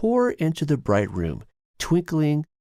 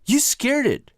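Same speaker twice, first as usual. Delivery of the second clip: hissed; 4 dB louder than usual. A narrator's reading. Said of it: "Billy hissed".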